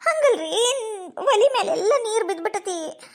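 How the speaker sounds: whimpering, wailed excuse; tearful explaining. Acted. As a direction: explain through acted tears. Disbelieved wife explains in tears. (ಅಳುತ್ತಾ ವಿವರಿಸುವ ದನಿ)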